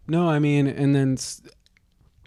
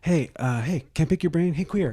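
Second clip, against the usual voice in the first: mock Jack calling out; 4 semitones higher than usual.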